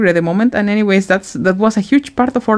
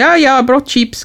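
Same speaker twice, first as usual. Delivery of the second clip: offhand, slightly higher imagined remark; casual mock quote; 5 semitones higher than usual. Imagining someone announcing chips to friends, casual. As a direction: toss it off like an everyday announcement. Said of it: "cannot just casually say".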